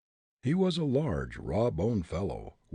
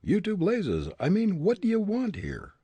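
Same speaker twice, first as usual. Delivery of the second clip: grunted; 11 semitones higher, 4 dB louder than usual. A narrator's reading. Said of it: "Fat John grunted".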